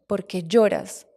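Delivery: slow, soft voice of the dead uncle; gently, slowly, like a voice from beyond; soft dead uncle's voice. Retold or imitated. El tío muerto le habla. (voz suave y lenta del tío fallecido, sereno)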